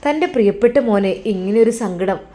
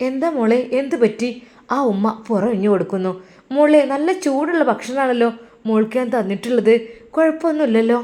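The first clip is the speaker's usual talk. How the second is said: worried mother; 3 semitones higher than usual. Acted. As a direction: fret over the girl like a scared mother. Mother worried about the girl.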